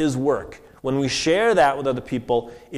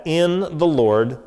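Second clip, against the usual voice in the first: "in" leaned on and held; stress on in; 3 semitones higher, slower than usual. Shown as a demonstration. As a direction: press on "in" as the key word. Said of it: "I wanna emphasize the word".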